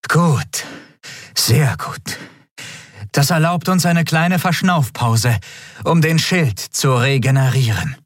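high, relieved captain voice. A narrator's reading. Captain relieved after the enemy retreats. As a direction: let out the relief.

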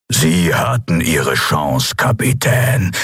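slow, drawn-out verdict; menacing villain. Acted. Villain ends his ultimatum.

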